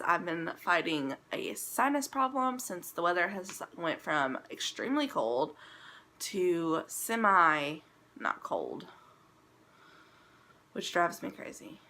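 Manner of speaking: congested, blocked-nose voice; stuffy nose. Real, not acted. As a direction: talk through a blocked nose. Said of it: "if I sound congested".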